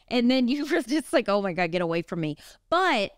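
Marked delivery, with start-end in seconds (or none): 1.3-2.4 lower, fast get-away; quick mock recoil. Husband shooing his wife away, low and quick. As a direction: rush it out like backing off.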